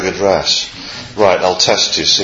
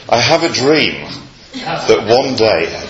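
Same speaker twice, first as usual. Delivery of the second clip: slow, lightly voiced American preacher cadence; a hint of Martin Luther King's oratory, drawn out slowly; Martin Luther King impression; 3 semitones higher, slower than usual. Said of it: "with an authentic accent as well".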